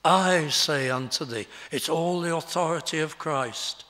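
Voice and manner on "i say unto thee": I leaned on, louder, the rest falling away; stress on I. Shown as a demonstration. Preacher to congregation, stressing Christ's own I. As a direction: hit the word I with full authority. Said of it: "May I put the emphasis on the "I"?".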